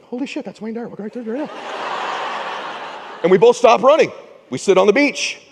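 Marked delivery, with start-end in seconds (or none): 0.0-3.2 laughing disbelief. Retold or imitated. Starstruck thought, laughing.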